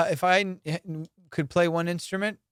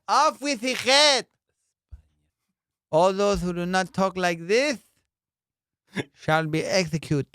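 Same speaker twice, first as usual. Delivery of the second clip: mock royal proclamation, played up bigger; hammed-up king's decree. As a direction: proclaim the execution like a pompous lisping king. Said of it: "I'd be like".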